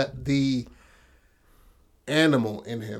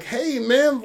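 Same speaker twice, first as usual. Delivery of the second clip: imitating the dad; 12 semitones higher, 4 dB louder than usual. Dad greeting son, quoted.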